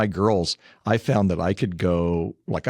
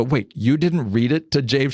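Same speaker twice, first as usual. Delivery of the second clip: surprised; 6 semitones higher, 3 dB louder than usual. Retold or imitated. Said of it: "And I go".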